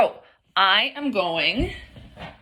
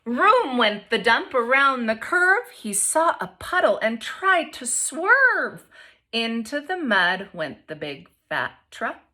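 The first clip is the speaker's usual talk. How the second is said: expressive picture-book read-aloud; reading to children; slower than usual. A narrator's reading. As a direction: read it to the class with lively voices.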